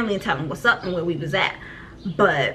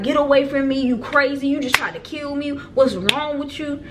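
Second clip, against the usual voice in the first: higher-pitched retold distress, mildly hysterical; 5 semitones higher than usual. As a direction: re-enact an upset rebuff, only partly worked up. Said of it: "I'm hysterical".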